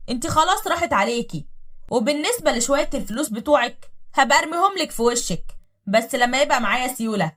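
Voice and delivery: loud, scornful orders; contemptuous husband. Acted. Husband ordering his sisters to throw wife out. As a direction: sneer and order her out.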